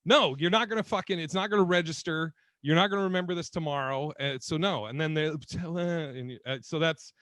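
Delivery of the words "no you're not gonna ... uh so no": firm refusal. Retold or imitated. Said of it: "And you're like".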